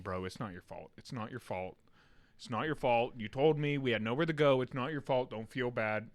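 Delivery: low, soft comforting; gently reassuring. Retold or imitated. Uncle consoling nephew after an accident, gently reassuring. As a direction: softly soothe an upset child.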